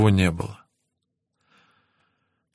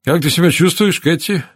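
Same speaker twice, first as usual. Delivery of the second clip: higher, light bedside question; lightly voiced casual visitor; breezy inquiry; 5 semitones higher than usual. A narrator's reading. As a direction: ask after the patient breezily, pitch lifted. Visitor breezily greets patient.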